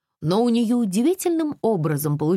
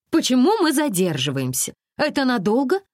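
put-on higher, girlish pestering; impatient questions; 10 semitones higher, 3 dB louder than usual. A narrator's reading. Alisa pesters the crew, lightly voiced and impatient. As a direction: keep nagging the crew lightly. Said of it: "спрашивала всё время Алиса".

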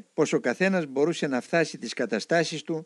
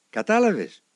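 sharp question; 8 semitones higher, 4 dB louder than usual. Retold or imitated. Elder asks sharply.

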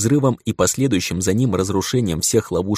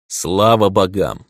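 relieved; 4 dB louder, slower than usual. Acted. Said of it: "расслабился я".

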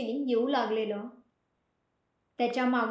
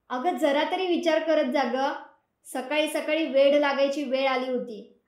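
louder, mildly annoyed scolding; a bit irritated; 4 dB louder than usual. Acted. Sameer to Sharvari after the morning scare, mildly angry. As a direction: let some irritation show, not full anger. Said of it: "तो जरा चिडत बोलला".

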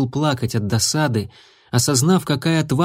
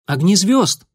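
higher, louder call of a name; 7 semitones higher, 3 dB louder than usual. A narrator's reading. A young apprentice calling his mentor from behind. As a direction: call to him from across the clearing.

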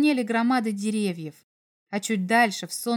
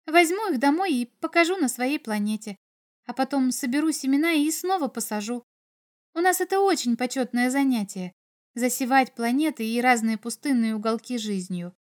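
lightly voiced earnest girl; 3 semitones higher than usual. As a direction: explain keenly in a lightly girlish voice. Girl explains her hobby.

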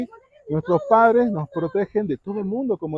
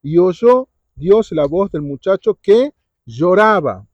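slow emphatic reading; 5 dB louder, slower than usual. Shown as a demonstration. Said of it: "escuchá que dice el diecisiete".

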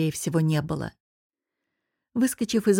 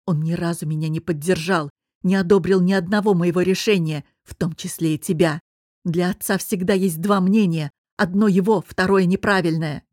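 louder, rising anger at his father; husband venting, voice climbing louder; heated outburst; 4 dB louder than usual. Acted. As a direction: let the grievance spill out loud. Husband angry about his father.

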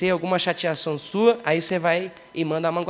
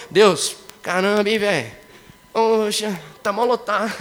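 casual complaint to God; slower than usual. Retold or imitated. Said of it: "tava entrando aqui no metrô".

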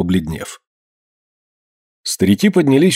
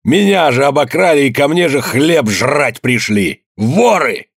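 frenzied shouting; 4 semitones higher, slower than usual. A narrator's reading. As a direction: scream at the old men in a frenzy. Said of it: "исступлённо кричал".

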